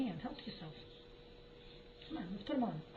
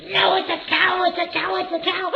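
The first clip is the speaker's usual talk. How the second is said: loud, higher, amused exasperation; exasperated loud; 6 semitones higher, 11 dB louder than usual. Real, not acted. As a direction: insist it's a cow, half laughing. Exasperated mom correcting child.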